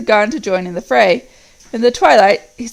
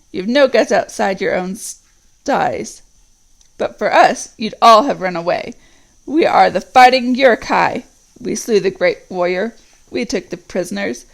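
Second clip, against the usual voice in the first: proud Uruk captain. Acted. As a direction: lord it over the little swine. Ugluk boasts of the Uruk-hai.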